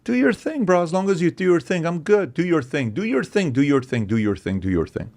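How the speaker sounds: high, breezy mock bro voice, winding down over the repeats; mock libertarian dude. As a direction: play the laid-back bro shrugging everything off. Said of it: "libertarians who are like".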